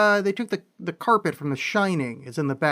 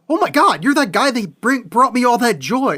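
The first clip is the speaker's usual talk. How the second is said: higher, louder mock fan gush; 6 semitones higher, 6 dB louder than usual. Fan on the street meeting the actor, high excited gush.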